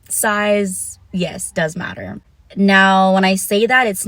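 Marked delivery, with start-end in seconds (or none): 0.1-2.2 laughing repeat. Real, not acted. Vlogger repeating her claim to viewers, laughing. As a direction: giggle through "Size, yes, does matter".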